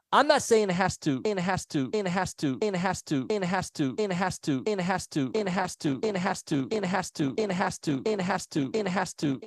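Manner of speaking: stuck repeating audio glitch; broken connection stutter loop. Real, not acted.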